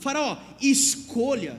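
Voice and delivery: "Faraó, escolha." drawn out slowly, "Faraó" stressed and falling; Bible intonation. Shown as a demonstration. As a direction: give Joseph's line weight and drama. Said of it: "Você tem que pôr uma entonação na Bíblia".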